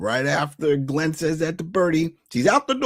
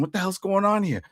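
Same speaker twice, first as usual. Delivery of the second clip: mock outrage; 6 semitones higher than usual. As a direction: imitate a jealous man bursting in. Acting out Mickey walking in angry.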